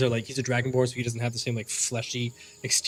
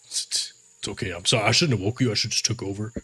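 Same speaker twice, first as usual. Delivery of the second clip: sheepish apology; 3 semitones lower than usual. Acted. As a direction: coax a tired friend to rest. Orc apologizing gently.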